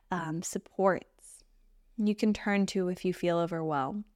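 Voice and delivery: gentle meditation guide with long pauses; unhurried, even meditation voice; guided meditation. Acted. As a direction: guide them into stillness, leaving space between phrases.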